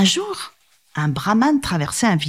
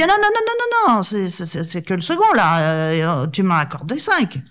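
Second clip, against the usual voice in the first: non répétés très aigus et pressés; arrête le tigre en panique; brahman paniqué; 3 semitones higher than usual. Acted. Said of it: "très vite lui dit". (brahman qui panique et parle vite)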